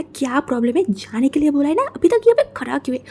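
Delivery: rising shout ending high and fast. Acted. Brother shouting at Wing to leave, rising yell. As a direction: yell him off, getting sharper. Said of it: "चिल्ला के बोला".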